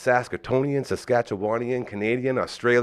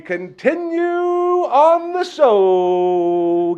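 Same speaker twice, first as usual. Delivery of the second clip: announcer voice; 7 semitones higher, 6 dB louder, much slower than usual. Acted. Host's big announcer transition.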